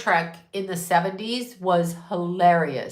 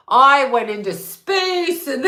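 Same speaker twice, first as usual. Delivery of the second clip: mock Shatner; 4 semitones higher, 4 dB louder than usual. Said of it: "mocking Shatner".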